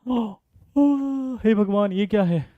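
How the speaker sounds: a gasp and a high oh of fake shock; mock gasp. Teacher faking shock at his own trick question, gasping. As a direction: act stunned by your own trick.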